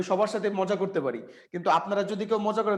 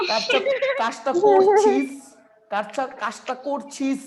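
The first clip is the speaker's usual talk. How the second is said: slow, high, hammed-up Hindi-serial line "কাজটা করছিস"; milk "কাজটা করছিস" like a soap-opera heroine; TV serial drama voice; 4 semitones higher, slower than usual. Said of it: "Hindi serial দেখে ওই সেন বংশ". (নাটকীয় সিরিয়াল ঢঙে, ধীরে আর উঁচু সুরে)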